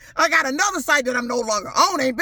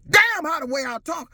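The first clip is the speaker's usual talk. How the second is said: normal talking voice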